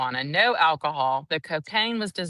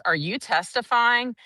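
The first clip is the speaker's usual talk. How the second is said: mock snappish question, pitched higher; witness snapping; 6 semitones higher than usual. Witness snapping back at the prosecutor, mock snappish. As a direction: snap back at the lawyer, imitated. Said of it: "the witness snaps at her".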